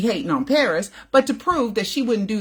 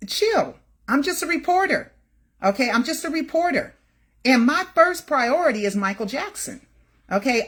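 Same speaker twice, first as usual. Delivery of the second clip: exasperated plea; 6 semitones higher than usual. Real, not acted. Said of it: "defending herself to angry viewer".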